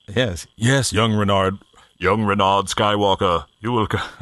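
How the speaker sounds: slow, mock-wise Jedi master; playful slow Jedi impression; Obi-Wan-style mentor. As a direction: draw it out like a sage old mentor. Obi-Wan speaking to young Skywalker.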